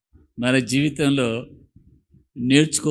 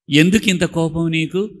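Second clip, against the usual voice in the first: quoted question; 2 semitones higher, 4 dB louder than usual. Retold or imitated. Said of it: "ఎవరన్నారు?".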